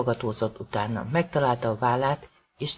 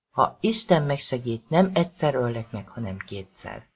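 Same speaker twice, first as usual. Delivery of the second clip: menacing threat. Acted. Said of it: "Norman egyik kedvenc fenyegetése".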